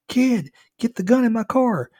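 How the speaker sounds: very high, loud scream; desperate yell. A narrator's reading. Attacked driver yells to the kid for his gun. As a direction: yell the order as if under attack. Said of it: "he yelled at".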